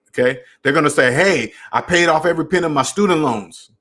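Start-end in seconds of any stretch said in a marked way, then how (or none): 1.1-3.7 mildly proud, a bit brighter; a touch of pride in the announcement. Shown as a demonstration. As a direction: announce it like a small victory. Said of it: "That's how they say it".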